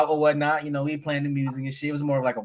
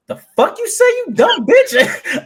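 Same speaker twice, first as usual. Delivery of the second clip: high, loud angry snap at her; retold spaz; 9 dB louder, much slower than usual. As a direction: blow up at her in mock rage. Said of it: "I spaz".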